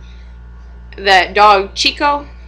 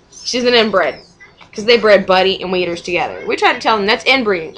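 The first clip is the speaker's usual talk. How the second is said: normal talking voice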